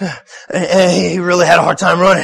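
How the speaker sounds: put-on breathy, wheezy announcer.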